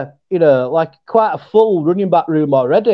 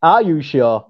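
Yorkshire accent; 4 semitones lower, slower than usual. Shown as a demonstration. Co-host repeats his version, lower Yorkshire accent. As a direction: lower Yorkshire "Are you sure". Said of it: "All I have to do is go".

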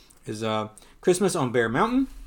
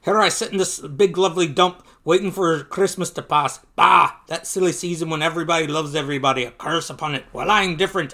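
really bad Scottish accent, higher and louder; Scrooge in a bad accent; 4 semitones higher, 6 dB louder than usual. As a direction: play a grumbling miser with a hammed-up Scottish burr. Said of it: "I'm gonna do a really bad accent".

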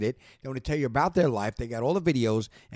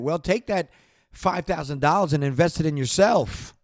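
fired up; 3 semitones higher, 5 dB louder than usual. Real, not acted. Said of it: "I'm sorry".

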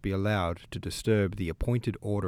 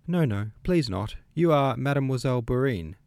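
eager; 5 semitones higher, 4 dB louder than usual. A narrator's reading. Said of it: "said the little princess".

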